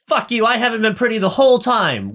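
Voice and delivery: high-pitched, indignant mock tantrum; imitating an aggrieved meltdown; mock furious outburst. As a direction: play up a wounded, angry protest. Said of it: "furious rage".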